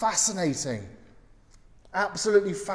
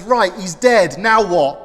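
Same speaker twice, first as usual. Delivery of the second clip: cheery dim hunter; 8 dB louder than usual. Retold or imitated. Hunter back on the phone.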